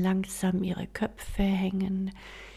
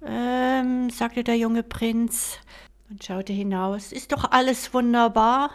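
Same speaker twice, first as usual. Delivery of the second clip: carefree; 3 semitones higher, 4 dB louder than usual. Acted. Carefree prince brushes it off.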